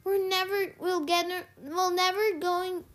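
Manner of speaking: a restrained yell of worry; mild yell. A narrator's reading. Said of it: "Annabeth yelled as we climbed".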